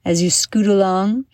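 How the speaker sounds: put-on measured storyteller voice for children; guided visualization. Storyteller taking young adventurers through Noe Valley, guided visualization. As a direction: lead young listeners through an imagined journey, phrase by phrase.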